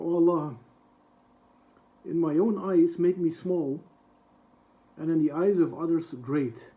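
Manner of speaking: a real catch of feeling in the voice as he translates; emotional. Real, not acted. Teacher moved while translating a dua, real emotion. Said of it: "Sorry, I'm getting a little bit emotional".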